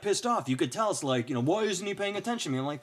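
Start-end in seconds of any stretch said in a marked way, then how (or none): 1.4-2.6 whiny troll. Retold or imitated. Voicing an ignored troll.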